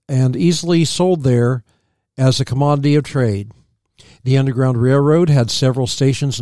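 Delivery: measured reading from a history book; read-aloud history. Real, not acted. Co-host reading about early settlers, read-aloud history. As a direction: read the facts out evenly.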